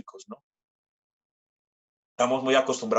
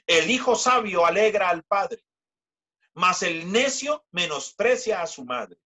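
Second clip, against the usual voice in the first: preacher proclaiming the verse; proclaiming scripture; 5 semitones higher than usual. Acted. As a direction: lift the verse up to the room. Raised scripture reading.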